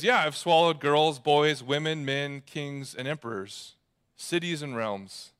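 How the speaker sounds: no boast, no apology, voice falling away; matter-of-fact. Retold or imitated. Lion answering the girl's question, matter-of-fact. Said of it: "said it not as if he was boasting or if he was sorry, but just a fact".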